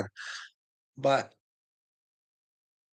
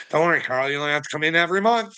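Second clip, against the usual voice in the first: mock reassuring doctor; 4 semitones higher, faster than usual. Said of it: "doctor voiced reassuring Carl".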